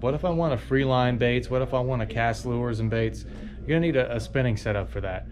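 ordinary delivery

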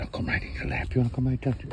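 cat voice. Pretend. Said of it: "She says".

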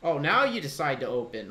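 loud exasperated complaint; annoyed. Real, not acted. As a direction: snap at the stubborn game. Frustrated at game menu.

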